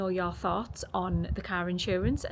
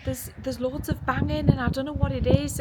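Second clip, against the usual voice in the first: higher-pitched retold complaint; raised-pitch quoted worry; imitated complaint; 7 semitones higher, 4 dB louder than usual. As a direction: lightly mimic someone who can't sleep. Retells child's night-time complaint.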